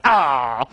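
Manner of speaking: low, short mock yelp; mock startled boys' yelp. Boys at the back startled by the teacher, low mock yelp. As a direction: react like a startled boy, low. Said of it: "the boys ... are like".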